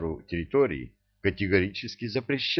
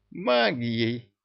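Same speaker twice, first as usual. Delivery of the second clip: pleased; 4 semitones higher than usual. Acted. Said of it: "обрадовался чему-то Шахрияр".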